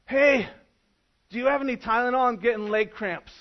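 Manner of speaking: loud, high, casual ask to the boat captain; hammed-up drowning man asking for Tylenol; silly request to rescuer. Pastor mocks a drowning man asking the captain, loud and high. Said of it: "look at the captain of that boat and go".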